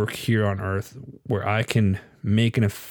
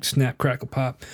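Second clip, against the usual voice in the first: put-on creaky old groan; 4 dB quieter, slower than usual. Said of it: "Now it's like".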